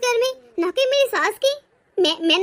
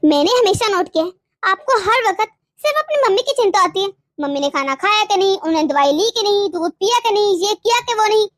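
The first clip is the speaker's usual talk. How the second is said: hurt, accusing tirade; angry reproach; 4 dB louder than usual. Acted. Wife accusing husband of caring only for his mother, angry reproach. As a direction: pile up the grievances at him accusingly. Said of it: "ये तुम किस लहजे में बात कर रहे हो".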